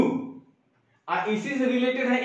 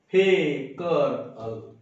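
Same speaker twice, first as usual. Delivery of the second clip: mock crying wail; 5 semitones lower, much slower than usual. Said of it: "जोर जोर से चिल्ला के रोना".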